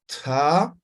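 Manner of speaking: Ta popped with a glottal click; ejective ta. Shown as a demonstration. Teacher shows explosive Ta. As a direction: snap the Ta out sharply.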